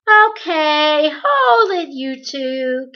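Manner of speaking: calling out. Acted. Charles Wallace interrupts Meg and Calvin, calling out loudly. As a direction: halt them with a sudden call.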